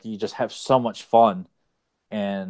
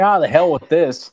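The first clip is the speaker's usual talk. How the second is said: cowardly henchman bailing; 7 semitones higher, 7 dB louder than usual. Retold or imitated. Villain bailing out, acted quote.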